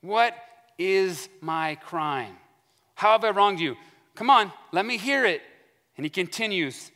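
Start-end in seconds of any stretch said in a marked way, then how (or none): 0.0-5.4 a touch of anger, stretched then punched; mock perturbed challenge. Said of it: "he's a little perturbed".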